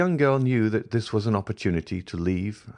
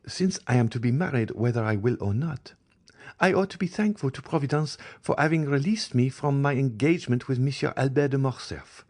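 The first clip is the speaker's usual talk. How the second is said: a higher, lightly voiced proud girl; voiced Eugénie; 7 semitones higher than usual. A narrator's reading. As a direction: speak of the broken engagement with cool pride. Eugénie speaks of her engagement.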